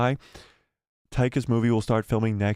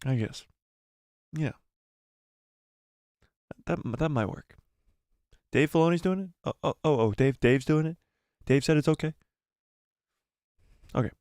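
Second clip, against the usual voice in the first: Kathleen Kennedy impression; 3 semitones higher than usual. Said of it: "This is my Kathleen Kennedy impression".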